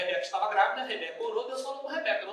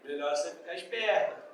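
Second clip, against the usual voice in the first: mother's warning; 6 semitones lower than usual. Retold or imitated. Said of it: "quando ela falava pro meu pai".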